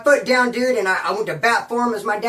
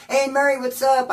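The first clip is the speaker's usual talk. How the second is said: friendly greeting; 4 semitones higher than usual. Retold or imitated.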